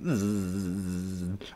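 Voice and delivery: long, low buzzing zzz; sustained buzz sound effect; imitated buzz. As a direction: buzz through the teeth, drawn out. Acting out a mock battle's end.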